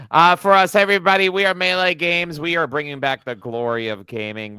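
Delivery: loud, high hype intro; host's loud show announcement. Real, not acted. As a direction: announce the channel with a big push. Announcing the channel.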